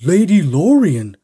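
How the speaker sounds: calling out loudly, hands cupped round the mouth; a ringing shout. A narrator's reading. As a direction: call her name across the tunnel. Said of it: "cupped his hands around his mouth and shouted".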